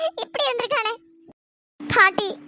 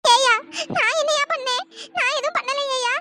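tearful plea. Acted. Mother blamed by husband, pleading.

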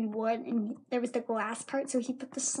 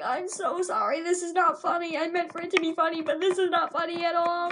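higher-pitched, insistent apology; imitated flustered teacher; 5 semitones higher than usual. Teacher to girl after joke went wrong, high flustered apology. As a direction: plead it higher, all in a rush.

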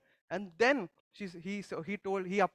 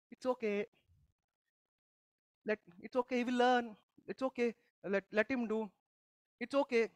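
higher, easygoing and soothing; lenient reassurance; 4 semitones higher than usual. Acted. Preacher acting a grace-mode person excusing a mistake, soothing. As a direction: let it all slide, gently indulgent. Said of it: "we can end up in the grace mode always".

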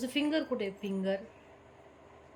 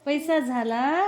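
पैसा stressed, slow, rising on झाला; emphatic recital; 2 semitones higher, 4 dB louder, slower than usual. Shown as a demonstration. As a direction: press पैसा, slow and lifting. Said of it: "teaching the poem line".

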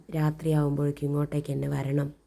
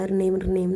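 written ring sound; 3 semitones higher, 3 dB louder than usual. Shown as a demonstration. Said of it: "ഇവിടെ നമ്മൾ എഴുതിയിരിക്കുന്നത്".

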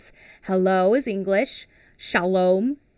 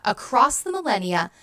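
reading a quote. Acted. Teacher sharing her favourite quote with the class, reverent. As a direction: savour each phrase. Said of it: "is a quote".

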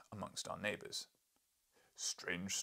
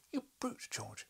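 mild acted scream; slower than usual. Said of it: "she screamed".

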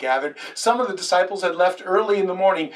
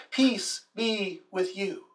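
slow, soft and tender; a gentle slow blessing from Jesus; gentle peace greeting; 3 semitones higher, 5 dB quieter, slower than usual. Acted. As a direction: bless them quietly and slowly. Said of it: "He said it twice to the disciples".

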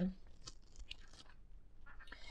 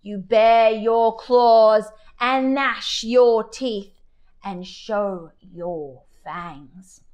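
lion teacher; slower than usual. Acted. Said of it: "said the lion".

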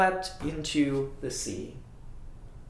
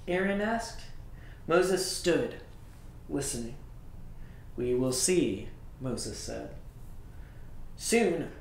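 story narration. A narrator's reading. Reads story to children.

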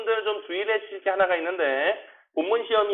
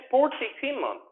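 quick, higher-pitched model phrase; 5 semitones higher, slower than usual. Shown as a demonstration. Teacher models for students to repeat, quickly. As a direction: run both words together briskly. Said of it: "빨리 할게".

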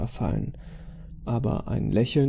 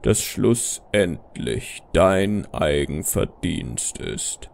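very low, slow stern father figure; strenger Vater; 7 semitones lower, slower than usual. Acted. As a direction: pronounce judgment in a deep, slow voice. Vaterfigur spricht in der Erzählung. (strenger, tiefer, langsamer Vater)

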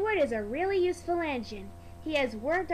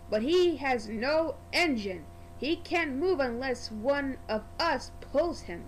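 sniffy Gordon. Acted. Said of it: "Gordon sniffed".

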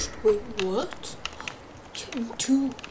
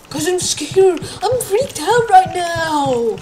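scared; 4 semitones higher, 5 dB louder, slower than usual. Real, not acted.

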